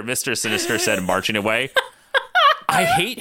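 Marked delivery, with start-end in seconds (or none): 2.2-3.2 laughing. Real, not acted. Reader laughing through the line.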